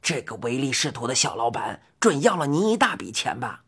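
low, sympathetic; concerned. Acted. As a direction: sound caring for her. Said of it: "怪老头关切地说".

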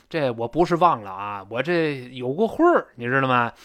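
mildly protesting husband's excuse; lightly acted defensive explanation; husband explaining himself. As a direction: plead your case a little. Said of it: "老公呢就解释".

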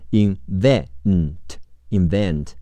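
"invent" slowly in pieces with VENT stressed, then whole; stress on second syllable. Shown as a demonstration. Teacher models invent for learners, stress on VENT. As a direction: lean on VENT in "invent", sounded out, then joined. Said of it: "重音在V".

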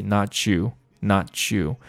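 not you run together into a ch sound; not you as one linked chunk. Shown as a demonstration. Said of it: "把它连在一起".

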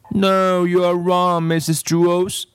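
put-on high, insistent little-girl voice; a stubborn girl contradicting her teacher; bratty child insisting she's right; contrary girl.

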